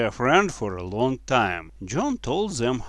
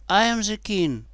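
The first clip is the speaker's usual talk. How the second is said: high-voiced royal declaration; boy king; 8 semitones higher than usual. A narrator's reading. Boy king answers the girls, high declaration. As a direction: state it in a high boyish voice.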